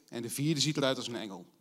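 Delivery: reads the Bible story to the congregation, lively; Bible story reading. Acted. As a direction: tell the story of the fiery furnace aloud, as a reader.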